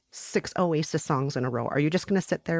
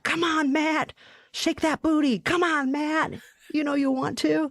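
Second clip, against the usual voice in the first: high, hammed-up cajoling; playful coaxing; 11 semitones higher than usual. Coaxing Matt onto the wedding dance floor, high playful pleading. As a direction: egg a reluctant friend on in a mock-pleading high voice.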